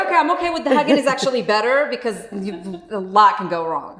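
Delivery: laughing. Retold or imitated. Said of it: "So I was like".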